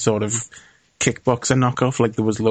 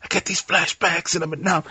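mock tragic hero; 5 semitones higher, 4 dB quieter than usual. Mocking character's dramatic flashback line.

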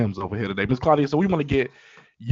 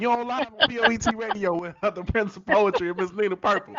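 playful greeting; 9 semitones higher, 4 dB louder than usual. Pretend. Host greets granddaughter playfully.

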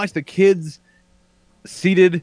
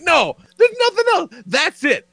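much higher emphatic refusal; mock insistence; 13 semitones higher than usual. Refusing to sit down while his wife tugs at him, much higher. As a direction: insist there's nothing else. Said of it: "I'm like".

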